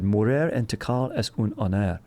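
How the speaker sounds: put-on light Spanish accent on the quote. Quoting the Tikal inscription, in a light Spanish accent. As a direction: read it like a Spanish speaker. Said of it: "I don't know why I put that accent on it".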